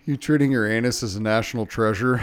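quoting through laughter; laughing quote. Retold or imitated. Quoting the movie to his co-host, laughing. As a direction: laugh out the line.

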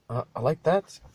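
lightly attempted Rudy accent; Misfits character accent. Podcaster to Misfits actor, a rough stab at Rudy's accent. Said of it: "I don't know what fucking accent that was".

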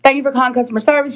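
quick mock call-centre script; customer service greeting. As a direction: imitate a rote customer service line, fast. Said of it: "She says her whole little line".

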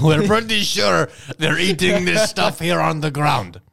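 high, loud, slow put-on voice; mock Russian spy report. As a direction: announce it like a hammed-up spy. Acting spies reporting what they see.

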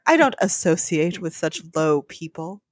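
put-on mildly sneering young snob; haughty contempt, understated. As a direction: look down your nose at a beggar. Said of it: "he said with a sneer".

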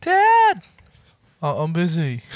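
put-on high, whiny little kid interrupting. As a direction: play the kid barging in. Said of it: "He's like".

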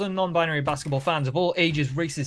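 grand ringmaster announcement. Acted. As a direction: roll up, roll up showman call. Podcast host's grand intro.

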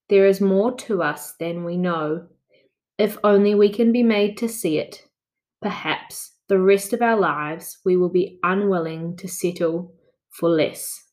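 each phrase read slowly; slow, careful reading. Shown as a demonstration. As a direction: read it nice and slow, pausing. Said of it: "nice and slow".

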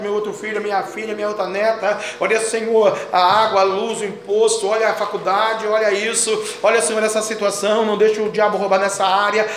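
running litany on an even pitch; conversational prayer. Shown as a demonstration. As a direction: demonstrate talking on and on to God. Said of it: "conversar com ele". (oração corrida, como conversa com Deus)

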